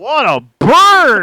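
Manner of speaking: high, drawn-out hoot; gleeful jeering. Real, not acted. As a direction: crow over your friend getting roasted. Co-host reacts to a burn.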